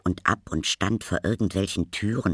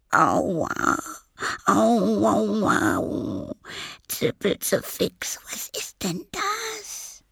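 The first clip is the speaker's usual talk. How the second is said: very high, squeaky little complainer; childlike voice; 13 semitones higher, much slower than usual. Acted. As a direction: yelp in a tiny child's voice. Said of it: "eher nach einem Kind". (sehr hohe, jammernde Kinderstimme)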